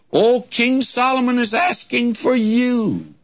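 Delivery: high, breathless rush of news; a villager bursting in on the girl with news, excited; excited messenger. Retold or imitated. Messenger calling to the girl, high and excited. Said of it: "comes to her excitedly".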